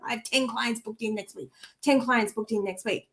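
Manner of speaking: quiet mechanical repetition; rote inner mantra. Shown as a demonstration. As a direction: mumble it like a mantra in your head. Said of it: "over and over again in my head".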